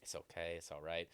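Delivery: low, soft self-soothing; calming oneself. Retold or imitated. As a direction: re-enact settling down after a deep breath. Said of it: "take a deep breath and be like".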